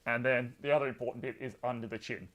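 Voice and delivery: talking through a mask; muffled behind a face mask. Real, not acted. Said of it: "I'm gonna be muffled now".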